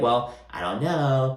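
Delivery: slow, mildly bitchy retort; passive-aggressive. Retold or imitated. Lisa brushes off Whitney, slow and passive-aggressive. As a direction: imitate a drawn-out snide brush-off. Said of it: "Just very passive-aggressive and just kinda bitchy".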